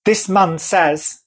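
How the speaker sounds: mock her slow, drawn-out words; imitating her delivery. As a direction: draw each word out, imitating the woman. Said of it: "this is how she said it".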